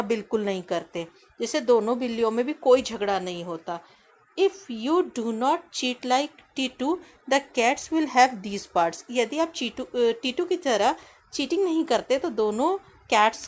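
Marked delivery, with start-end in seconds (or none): 4.4-9.0 slow reading aloud. Shown as a demonstration. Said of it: "teacher reading English text slowly".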